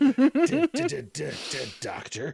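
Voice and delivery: loud frightened stutter; startled stammer. Acted. Startled stammer seeing someone.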